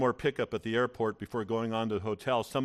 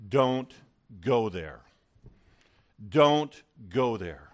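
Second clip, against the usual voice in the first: firm divine warning; 2 semitones lower, 3 dB louder, much slower than usual. Retold or imitated. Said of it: "God is saying".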